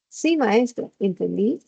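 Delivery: clear, sure "Sí, maestra, entendí"; confident. Shown as a demonstration. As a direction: answer the teacher with conviction. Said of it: "se nota muy claro". (seguro y claro)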